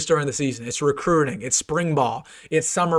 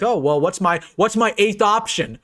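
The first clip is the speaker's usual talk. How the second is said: mock rival; 5 semitones higher, 3 dB louder than usual. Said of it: "You're like".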